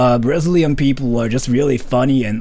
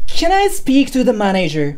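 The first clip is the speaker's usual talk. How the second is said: demanding voice; 9 semitones higher than usual. Shown as a demonstration. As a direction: demand the manager, high and pushy. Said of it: "in a demanding voice?".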